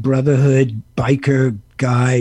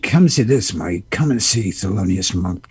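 lightly voiced Eastwood; 8 semitones lower, 3 dB quieter than usual. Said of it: "So he said".

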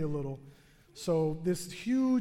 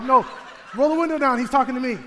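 mock call out; 4 semitones higher, 8 dB louder, faster than usual. Calling to imagined man outside car.

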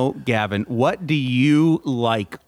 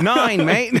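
hammed-up German accent, higher; silly higher mock German accent; 8 semitones higher than usual. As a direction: squeak out a cartoon German. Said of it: "Is that your German accent also?".

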